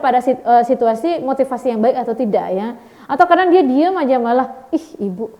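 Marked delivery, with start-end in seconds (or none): 4.7-5.3 softer, lower cynical mutter; cynical remark. Retold or imitated. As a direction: brush it off as empty talk. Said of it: "Kan ada yang sinis-sinis seperti itu". (sindiran sinis yang pelan)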